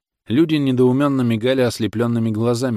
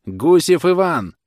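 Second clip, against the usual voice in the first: slow, much higher and louder call; a thin, piercing summons; old judge calling the defendant; thin shout; 9 semitones higher, 7 dB louder, slower than usual. A narrator's reading. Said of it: "Старик тонко закричал".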